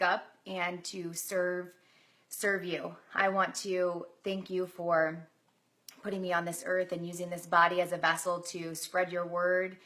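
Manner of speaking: earnest, hushed prayer to God; spoken prayer. Real, not acted. Prays aloud on camera.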